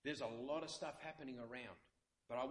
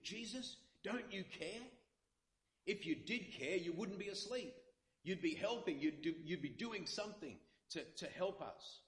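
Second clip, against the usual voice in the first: rebuke; 6 semitones higher than usual. Shown as a demonstration. Preacher reading the disciples' line as a high rebuke. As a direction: scold him for sleeping. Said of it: "This is a rebuke".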